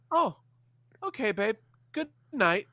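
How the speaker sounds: high, soothing retold reply, a touch mocking; placating. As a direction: humor a wife who is talking nonsense. Placating half-asleep wife.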